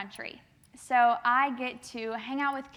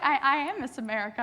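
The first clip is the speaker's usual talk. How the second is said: laughing protest; 2 semitones higher, 4 dB louder, faster than usual. Retold or imitated. Insisting through laughter.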